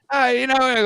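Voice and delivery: light put-on English accent. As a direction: slip briefly into a mock English accent. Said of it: "an English accent's gonna pop out".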